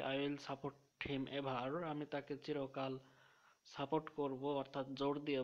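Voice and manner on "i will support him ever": very slow, word by word; slow dictation. Shown as a demonstration. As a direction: read the memory sentence slowly for students to copy. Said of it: "একটা সেন্টেন্সে আমরা মনে রাখতে পারি".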